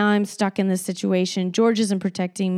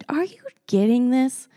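indignant; 4 semitones higher than usual. Retold or imitated. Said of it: "I was like".

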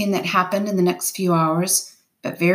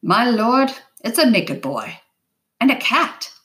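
higher-pitched, moderately raised exclamation; astonished yell; 5 semitones higher than usual. A narrator's reading. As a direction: yell the discovery back to the boat. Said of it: "And then he yelled".

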